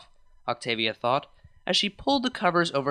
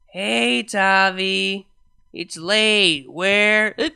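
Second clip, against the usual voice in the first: put-on drunk hiccuping; 4 semitones higher, 6 dB louder, much slower than usual.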